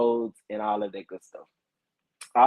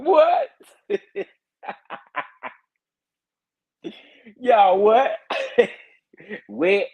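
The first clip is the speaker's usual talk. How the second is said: laughing disbelief; 7 semitones higher, 4 dB louder, slower than usual. Real, not acted. Laughing at chat comments.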